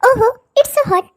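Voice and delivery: slow, showy mock complaint; a spoilt stepsister sneering at the girl in the sun; mocking drawl. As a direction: lord it over her.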